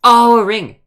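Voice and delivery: loud, high sudden realisation; light up as it clicks; surprised. Real, not acted. Sudden understanding.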